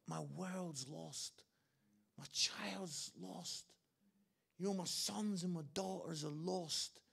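slow, understated grief with long pauses; devastated. Retold or imitated. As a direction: mildly voice a devastated father, weighing each phrase. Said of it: "God is devastated".

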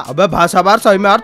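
थोड़ी नीची, खिंची आवाज़ में कुत्ता चॉप; "यार" पर ऊपर उठती टोन वाला चॉप; Chop dog voice. Pretend. (मज़ाकिया चॉप की हल्की सी आवाज़)

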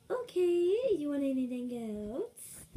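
waitress character. Pretend.

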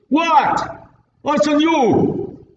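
a hint of Uncle Vinny's blunt brush-off. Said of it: "Put in your best, Uncle Vinny".

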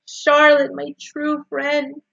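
high wail, drawn out and easing in volume; anguished moan. A narrator's reading. Wilbur grieves to his dying friend Charlotte, moaning. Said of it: "he moaned".

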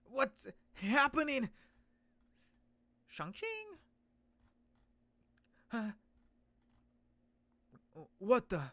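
loud, high, slow panicked question; alarmed hero. Acted. Hero startled by his own transformation, loud and alarmed. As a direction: panic at the change.

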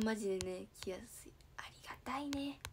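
whisper. Real, not acted. Whispered aside.

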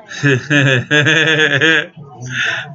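loud, long cackling laugh. Real, not acted. Laughing at the camera when upset, loud cackle. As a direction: let out a rapid run of laughter.

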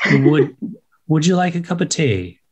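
careful learner's attempt at a British accent; new English accent. Shown as a demonstration. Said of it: "your new English accent".

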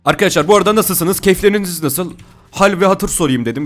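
high, loud cheery hello; upbeat host greeting. Real, not acted. Gamer greeting his viewers mid-game, cheery host voice.

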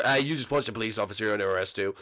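a hint of a suspicious policeman; lightly voiced officer. Officer voice arresting.

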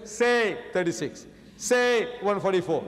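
"Say thirty-six" drawn out slowly, each "Say" stressed; slow, pointedly wrong answer; mock odd answer. Shown as a demonstration. Preacher mocking an unnatural reply to a sum, slow. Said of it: "You don't say".

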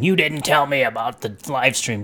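lightly put-on scolding, quoting someone who was mad; mock mad complaint. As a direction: imitate a friend's mildly miffed complaint. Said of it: "He got mad at me".

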